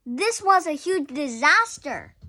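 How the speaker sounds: dramatic. A narrator's reading. Dramatic reading of danger.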